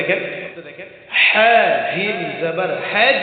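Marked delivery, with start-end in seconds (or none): 1.2-3.2 হাজ ending with a bounced echo on জ; echoing qalqala. Shown as a demonstration. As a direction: hit the জ with a jolt. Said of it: "প্রতিধ্বনি আওয়াজ দিতে হবে". (জিমে প্রতিধ্বনি দিয়ে উচ্চারণ)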